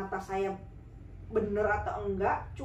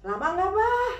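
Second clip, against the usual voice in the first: anxious question; 9 semitones higher, 7 dB louder than usual. Retold or imitated.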